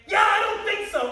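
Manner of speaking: high, loud snapping refusal; mock shout. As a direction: bark it like losing your temper. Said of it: "come in and say".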